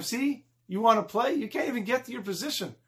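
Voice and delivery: acted playground ridicule; mocking taunt. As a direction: jeer at the kid who fell. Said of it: "they're laughing at him".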